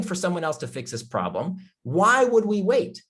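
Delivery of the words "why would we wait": emotional. Real, not acted. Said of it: "I get a little emotional".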